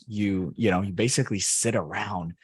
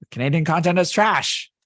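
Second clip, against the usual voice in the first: playful mock shout; 8 semitones higher, 7 dB louder than usual. Mock rant at Canadian content.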